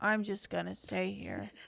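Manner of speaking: low, quiet, utterly defeated, given-up voice. Retelling how Kelly answered after being told to get up, imitating her defeated voice. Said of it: "The amount of defeat in your voice".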